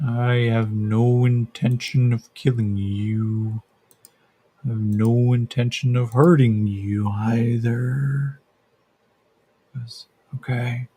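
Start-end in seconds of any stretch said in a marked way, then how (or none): 0.1-8.4 slow, soft, gentle voice in his head; soft gentle creature. Acted. The creature speaks into Yakim's head, slow and gentle. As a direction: speak slowly and gently, like a thought. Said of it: "It's very soft and gentle".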